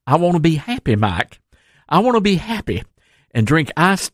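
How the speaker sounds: gently mock a contented old man on his porch; a hint of sweet, folksy happiness; Happy Mike. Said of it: "He said he doesn't like being Mad Mike".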